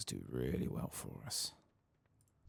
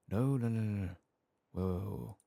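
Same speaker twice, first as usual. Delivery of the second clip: higher, louder panicked protest; yelping no as the fight goes wrong; alarmed no; 7 semitones higher, 5 dB louder than usual. Real, not acted. Gamer panicking as enemies overwhelm him, alarmed higher yelps.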